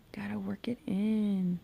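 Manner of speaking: murmured under the breath while concentrating; soft whispered self-talk. Real, not acted. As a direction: whisper it to yourself. Talking to herself while blending.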